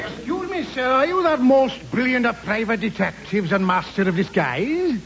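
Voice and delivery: put-on lilting Welsh accent. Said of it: "That's a Welsh accent".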